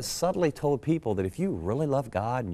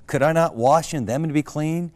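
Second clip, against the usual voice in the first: louder, higher indignant question; raging Naaman; 4 semitones higher, 8 dB louder than usual. Acted. Preacher quoting the king who spurns the rivers, in a rage. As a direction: protest loudly as the offended king. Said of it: "went away in rage".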